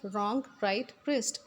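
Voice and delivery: रॉन्ग, राइट, रिस्ट each starting on R; रॉन्ग, राइट, रिस्ट, dropping the W; silent W. Shown as a demonstration. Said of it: "डब्ल्यू भी pronounce नहीं करेंगे".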